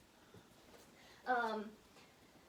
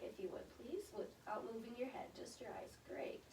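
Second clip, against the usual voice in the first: whispering; 5 dB quieter than usual. Real, not acted. Quiet exam instructions.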